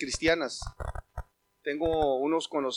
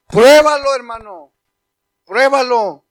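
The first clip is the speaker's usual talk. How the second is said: urgent plea; 4 semitones higher, 14 dB louder, slower than usual. Acted. Preacher urging anyone face to face, loud plea. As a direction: insist eye to eye.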